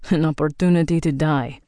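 Viking rebuttal, stress on An opportunity; gruff retort. Acted. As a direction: throw "An opportunity to die" back at her bluntly. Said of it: "Andor's retort".

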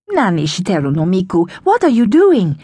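a fed-up mum telling off her daughter; complaining. Acted. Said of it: "she complained".

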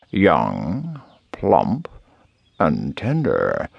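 lightly voiced, savouring villain; a hint of a hungry, sly fox; gloating fox. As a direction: pause to relish each word. Fox savours his coming meal.

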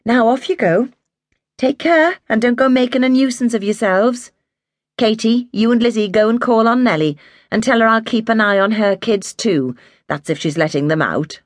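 lightly voiced mother warning her kids; Mary, a caring mother. A narrator's reading. Mother telling her children to take care in the snow, lightly voiced.

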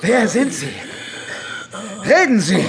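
harsh interrogation, rising to a shout; demanding. Acted. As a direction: press him hard for an answer. Interrogating the burned innkeeper. (fordernd, laut werdend)

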